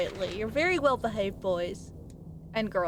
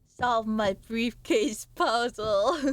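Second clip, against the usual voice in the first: slow, flat quest-giver line; slow game-character tone; much slower than usual. Acted. Streamer mimics an NPC asking for help, slow. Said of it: "saying it in the same tone".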